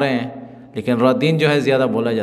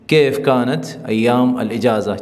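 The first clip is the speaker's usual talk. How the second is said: slow model sentence. Shown as a demonstration. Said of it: "چھٹیوں کے دن کیسے تھے".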